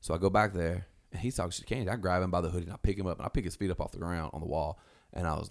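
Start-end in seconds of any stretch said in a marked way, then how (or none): none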